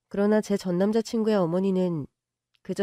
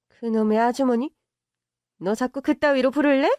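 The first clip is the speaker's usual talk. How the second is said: higher, indignant; offended rich mother; 3 semitones higher than usual. Acted. Mother offended by the word auntie, indignant. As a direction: bristle at being called auntie.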